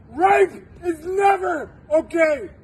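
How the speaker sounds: crying out, voice near breaking; slow, tear-choked emphatic words; tearful shout. Real, not acted. Emotional plea, cry heard.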